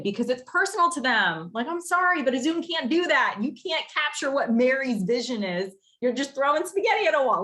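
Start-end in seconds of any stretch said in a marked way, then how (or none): 1.7-7.4 higher, sassy mock apology; sassy prospect pitch. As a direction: tease the rival pitch with a raised voice.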